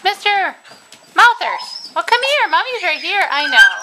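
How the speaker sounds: high, loud cooing to puppies. Real, not acted. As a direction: reassure the whining pups, high. Soothing puppies in baby talk.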